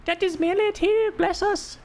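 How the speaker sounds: put-on hammy Ukrainian accent, way up high. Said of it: "I don't know how to do a Ukrainian accent".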